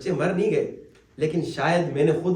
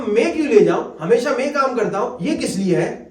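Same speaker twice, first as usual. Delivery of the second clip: louder, complaining son; resentful brother; 4 semitones higher, 4 dB louder than usual. Retold or imitated. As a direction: grumble it with grievance. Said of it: "وہ کہہ رہا تھا". (شکایتی اونچا لہجہ)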